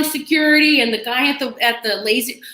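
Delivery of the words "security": yelling. Retold or imitated. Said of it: "I'm yelling".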